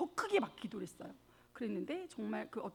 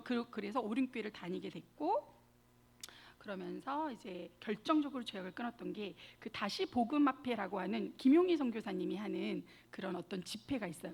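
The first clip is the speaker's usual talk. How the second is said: normal talking voice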